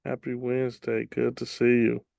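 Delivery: normal talking voice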